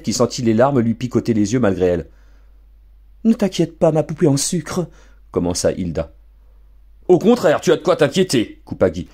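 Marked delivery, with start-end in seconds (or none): 3.2-4.9 cooing mother. Acted. Mother coos to daughter. 7.1-8.6 father cutting in sharply. Acted. Father cuts in.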